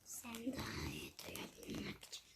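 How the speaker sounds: low, breathless whisper; scary whispered wolf voice. Acted. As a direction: hiss it like a lurking wolf. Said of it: "Korkunç bir ses yap".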